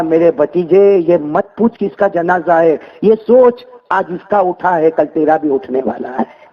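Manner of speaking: slow, low, measured advice; old saint warning his nephew slowly; grave counsel. Acted. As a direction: hold each word like a warning to the nephew.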